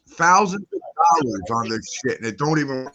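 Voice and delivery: breaking up, words dropping out; glitchy connection cutting out; choppy cut off endings. Real, not acted. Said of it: "I think you're cutting out".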